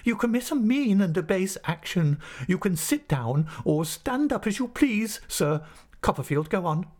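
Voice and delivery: high-pitched, emphatic condemnation; indignant rebuke. Acted. Insulted master rebukes pupil and resumes the lesson, indignant and high.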